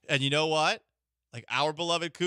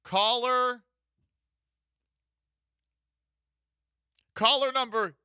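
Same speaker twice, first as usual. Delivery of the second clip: higher, louder hype call; excited announcer; 7 semitones higher, 5 dB louder than usual. Real, not acted. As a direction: pump up the callers. Hyping the contest call.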